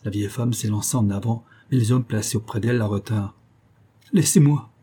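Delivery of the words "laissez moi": choked, higher, louder cry to be let go; strangled plea. A narrator's reading. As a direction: beg in a strangled voice. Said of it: "criait-elle d'une voix étranglée, presque suppliante". (cri étranglé et suppliant)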